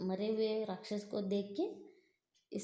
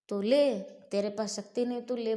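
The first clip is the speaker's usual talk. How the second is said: mocking taunt; 4 dB louder than usual. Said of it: "बोल के भीम उसको उठा के".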